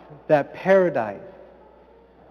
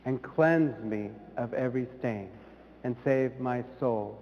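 quiet prayer recitation; 2 semitones lower, 5 dB quieter than usual. Retold or imitated. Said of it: "we say".

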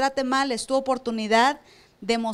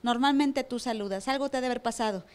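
gentle concern; 2 semitones lower, 6 dB quieter than usual. Retold or imitated. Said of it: "Claudia va a decir".

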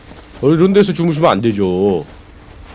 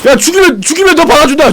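high, loud shouted offer; shouting; 6 dB louder, faster than usual. Real, not acted. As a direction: yell the promise across the fight. Shouting a deal mid-fight.

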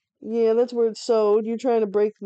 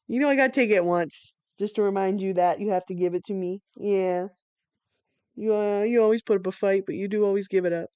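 ordinary talk, nothing marked

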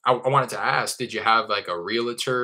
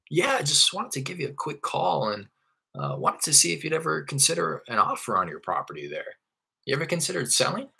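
higher, upbeat caller asking about selling; friendly sales pitch; 6 semitones higher than usual. Shown as a demonstration. Investor asking an owner about selling, breezy and upbeat. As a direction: pitch it light and easy. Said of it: "this is all for that first page on my script".

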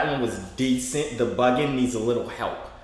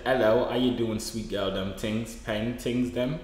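put-on British slang accent, slightly lower; 4 semitones lower, 3 dB quieter than usual. Streamer repeating greeting for confused caller, put-on British accent. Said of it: "I'm activate British mode".

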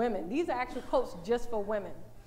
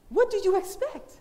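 higher and louder, WHAT punched; emphatic repeat; 7 semitones higher, 6 dB louder than usual. Real, not acted. Preacher repeating the question to the congregation, louder. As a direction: hammer the question home.

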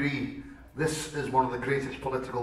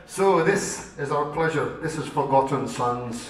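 song announcement; slower than usual. Real, not acted. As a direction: announce the title like a rallying cry.

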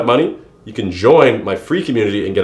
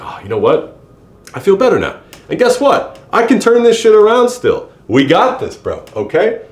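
rising to a high, loud excited burst; pumped-up self-talk; 8 semitones higher, 3 dB louder than usual. Retold or imitated. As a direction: voice the viewer suddenly fired up after the gym. Viewer's pumped-up thought after workout.

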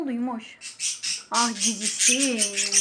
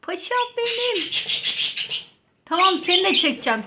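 higher, louder sing-song to a pet; 7 semitones higher, 5 dB louder than usual. Real, not acted. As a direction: coo up high to the bird. High pet talk to bird.

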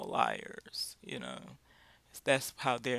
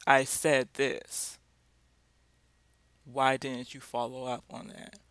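stern boss; 7 dB louder than usual. Retold or imitated. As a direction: lean on each word like an annoyed boss. Boss confronts late employee.

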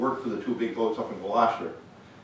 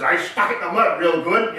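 mock gravelly delivery, raised and loud; loud punchline imitating a gravel-voiced friend; 8 semitones higher, 8 dB louder than usual. Fisherman delivers friend's anchor punchline to the audience, imitated gravelly voice. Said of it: "in his gravelly voice".

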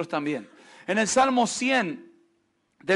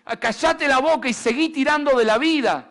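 loud, rough barked command; slave driver's order; 3 semitones higher, 5 dB louder than usual. Retold or imitated. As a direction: bark it like a harsh overseer. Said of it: "el único lenguaje que entendés es".

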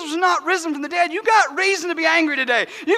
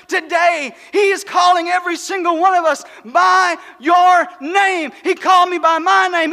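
preaching at full force. Acted. Pastor to his church on Easter, full-force preaching. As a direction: build the congregation up with every word. Preaching about being called by name.

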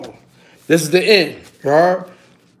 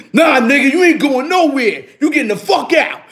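wife ordering out; 5 semitones higher than usual. Retold or imitated. Wife kicking him out, retold.

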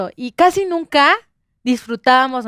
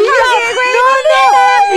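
higher, louder mock refusal; a hammed-up no, pitched up; mock protest; 10 semitones higher, 5 dB louder than usual. Refusing the tattoo artist's tiny dots, pitched up. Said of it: "y yo".

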